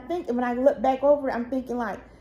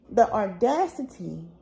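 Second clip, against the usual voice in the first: laughing disbelief; 3 semitones lower than usual. Real, not acted.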